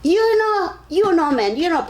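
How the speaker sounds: loud, high mock telling-off from the boss; retold cussing out. Boss cussing at the customer who didn't pay, loud and high. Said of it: "he just cussed at him".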